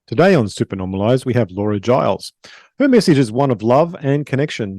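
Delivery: scripted host introduction, evenly flowing; polished podcast announcer read; podcast intro read. Acted. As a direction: read it out like a show opener.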